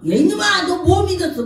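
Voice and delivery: loud, high-pitched telling-off; imitated scolding. Believer scolding him for such a prayer, loud mock reprimand. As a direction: scold like an outraged believer, voice jumping up. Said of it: "그 얘기면 혼나".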